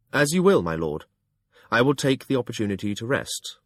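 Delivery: cold, formal reply to a lord; icy. Acted. Narrator answering his master, icy. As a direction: hold back anger behind stiff courtesy. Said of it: "My own voice was icy".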